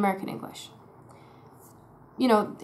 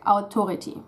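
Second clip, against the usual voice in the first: German au in authority. Shown as a demonstration. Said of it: "they might say stuff like".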